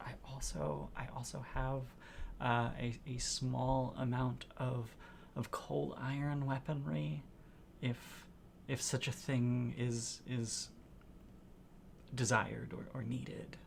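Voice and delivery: very quiet, soft hushed tones, near whisper. The game master speaks as Soren to the players: hushed tones as Soren. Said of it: "but in hushed tones".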